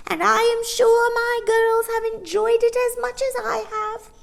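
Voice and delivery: gracious farewell; high old woman farewell. A narrator's reading. Old shopkeeper bidding Mary Poppins goodbye.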